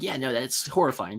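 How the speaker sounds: understated mock agreement, dryly sarcastic. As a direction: toss it off as a mildly sarcastic comment. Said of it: "like, a sarcastic comment".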